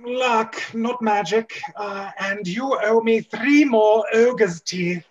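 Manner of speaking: lightly voiced old wizard, a bit slow; a hint of a gruff elder collecting his winnings; old wizard Walton. Walton demands his ogre teeth, in a lightly voiced old wizard manner.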